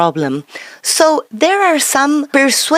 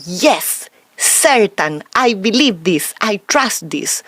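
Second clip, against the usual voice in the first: certain; 3 semitones lower, slower than usual. Acted. Voices the message of certainty.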